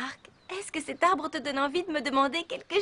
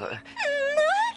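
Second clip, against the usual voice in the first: eager; 11 semitones higher than usual. Acted. Eager reply to a date invitation.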